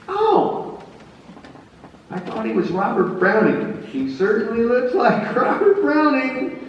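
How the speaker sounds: high, giggling tipsy general voice; tipsy general laughing at his mistake. Acted. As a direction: laugh off the blunder. Grant corrected, laughing.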